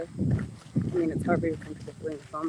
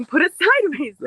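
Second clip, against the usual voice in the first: loud laugh while talking; 11 semitones higher, 11 dB louder than usual. Real, not acted. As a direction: laughs through the words. Laughing at friend.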